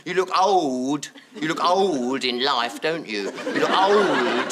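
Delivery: lightly voiced cheeky boy; blunt child. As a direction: state it flatly like a kid. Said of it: "He said to me".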